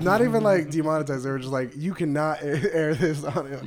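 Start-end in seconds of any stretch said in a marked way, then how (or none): 1.8-3.6 laughing. Retold or imitated. Voicing YouTube's refusal.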